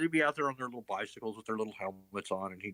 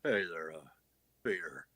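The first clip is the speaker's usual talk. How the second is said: Cleveland impression; 6 semitones lower than usual. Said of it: "the only part I can do".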